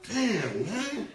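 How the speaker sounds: loud, high exclaiming through laughter; laughing exasperation. Retold or imitated. To his crying friend on TV, laughing exasperation. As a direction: yell at the TV, half laughing.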